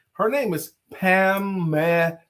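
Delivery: "Pamela" said slowly with three clear syllables; careful naming. Shown as a demonstration. Host stresses co-host's name has three syllables. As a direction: spell out "Pamela" by its sound. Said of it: "That's three syllables".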